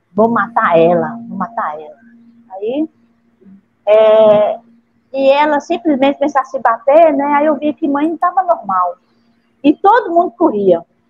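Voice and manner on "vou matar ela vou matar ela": strange, eerie, changed other voice. Retelling how the mother's voice suddenly changed: imitating a changed, strange voice. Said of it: "ela mudava a voz e ficava falando assim".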